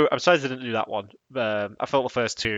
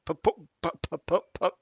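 laughing stammer; 7 semitones higher than usual. Retold or imitated. Stuttering laughing imitation.

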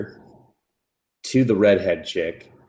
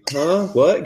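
mock confusion; 8 semitones higher, 4 dB louder than usual. Boy confused in recap.

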